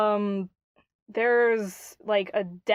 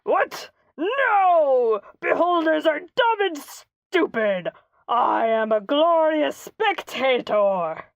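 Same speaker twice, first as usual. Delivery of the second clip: offended spectator; 4 semitones higher, 3 dB louder, slower than usual. Retold or imitated. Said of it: "the guy's like".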